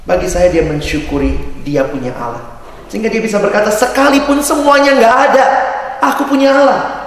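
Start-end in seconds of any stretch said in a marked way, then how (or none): 3.7-7.1 fervent declaration. Acted. Quoting the prophet's confession.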